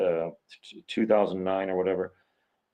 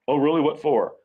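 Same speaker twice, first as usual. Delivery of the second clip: higher-pitched mock disbelief; mock surprise; 4 semitones higher than usual. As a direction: act out a mildly taken-aback reply. Acts out the person sent to prison.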